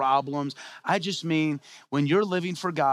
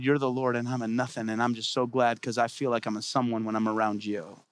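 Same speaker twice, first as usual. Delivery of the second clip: humble devotion; 5 semitones lower than usual. Acted. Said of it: "Humble people said".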